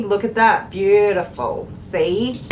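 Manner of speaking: a touch of Steve Irwin enthusiasm; excited Aussie praise for the dog; Australian excited. Real, not acted. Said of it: "I'm doing my Australian excited".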